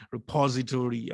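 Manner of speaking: repository the American way, stress on the second syllable, re-POZ-itory; American pronunciation. Retold or imitated. Lecturer playfully quoting American friends, repository in American pronunciation. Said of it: "as my American friends would say".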